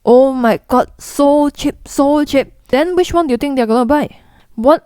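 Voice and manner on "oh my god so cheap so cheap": excited dumb money. Retold or imitated. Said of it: "Dumb money would be like".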